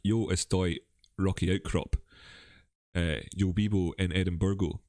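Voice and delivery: Spanish in a proper Scottish accent. Shown as a demonstration. Host showing viewers his Spanish, in a Scottish accent. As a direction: speak Spanish with your own Scottish accent. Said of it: "speak Spanish in a proper Scottish accent".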